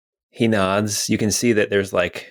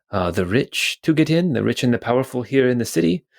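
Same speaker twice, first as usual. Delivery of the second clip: guard; 4 semitones higher than usual. Acted. GM voices the guard.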